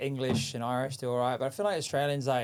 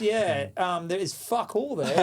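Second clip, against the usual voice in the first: high, loud laughing reply; laughing disbelief; 8 semitones higher, 5 dB louder than usual. Retold or imitated. Son to dad about his joke idea, laughing high. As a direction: laugh it off in mock politeness. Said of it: "And I was like".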